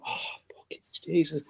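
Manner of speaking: whispered curse behind the manager's back. Retold or imitated. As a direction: hiss it so the gaffer won't hear. Teammate behind manager, muttering.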